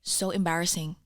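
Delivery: put-on light Filipino accent, dismissive; mildly accented mum rolling her eyes. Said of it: "why did that accent so well?".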